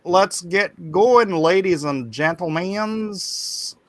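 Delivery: drawn-out Scottish-tinged rallying call; Scottish accent. Acted. Host sends the chat off to draw, Scottish accent. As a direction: put on a slow, stretched Scottish accent. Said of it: "Did you do a Scottish accent".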